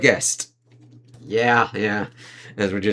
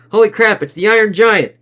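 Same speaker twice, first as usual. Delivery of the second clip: excited; 10 semitones higher, 7 dB louder than usual. Acted. Reading excited comic panel line.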